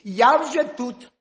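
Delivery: hedgehog's wife calls to the hare from the furrow; calling out. Acted. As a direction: sing out triumphantly. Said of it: "їжакова жінка ... кричить".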